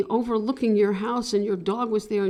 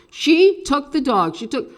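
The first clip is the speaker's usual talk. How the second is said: loud, slow and higher; stage voice call; 5 semitones higher, 10 dB louder than usual. Shown as a demonstration. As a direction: call it out for everyone to hear. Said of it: "Say these a couple of times".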